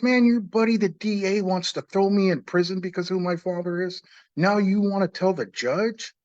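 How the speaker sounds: retold anger at the attorney, pressing hard; upset. Man retelling confronting his attorney over the DA, upset. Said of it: "I got upset".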